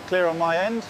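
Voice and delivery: crew chatter over headset radio; helmet radio. Real, not acted. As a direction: sound like a radio transmission.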